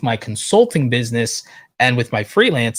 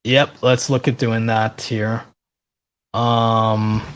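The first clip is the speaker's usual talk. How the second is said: hoarse; much slower than usual. Real, not acted. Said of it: "I'm also losing my voice now".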